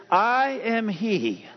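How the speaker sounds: each word stretched out, very slow; slow solemn answer. Acted. Pastor to the congregation, very slow and solemn. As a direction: let God's answer land slowly and solemnly.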